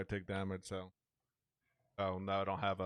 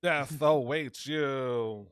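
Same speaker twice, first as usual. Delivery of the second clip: slow, louder robotic death threat; drawn-out robot voice through a voice changer; 3 semitones higher, 5 dB louder, much slower than usual. Shown as a demonstration. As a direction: intone it slowly like a menacing robot. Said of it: "with the robot voice real quick".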